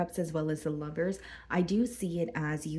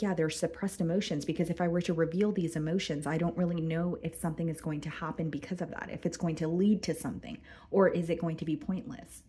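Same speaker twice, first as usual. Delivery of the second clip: losing her voice, hoarse; strained, hoarse voice. Real, not acted. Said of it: "I'm losing my voice during your reading".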